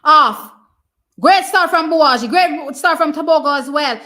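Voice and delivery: loud high cheering for the runner; screaming at the race on screen; excited cheering. Real, not acted. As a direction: yell him home down the track. Cheering live race call.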